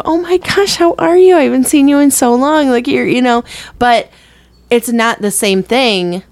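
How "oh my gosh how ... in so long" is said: high, gushing delighted greeting; excited greeting. Acted. Greeting someone you helped raise, excited. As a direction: act thrilled to see them, pitched way up. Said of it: "you'd be excited to see them".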